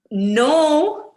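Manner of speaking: sharp, loud high refusal; blocking the way, a loud flat no; firm no. Acted. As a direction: stop him dead with one word. Ava blocks him from fridge.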